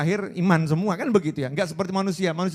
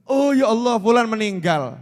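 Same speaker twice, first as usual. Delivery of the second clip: shocked news; 3 semitones higher, 5 dB louder than usual. Acted. Mimicking shocked death news.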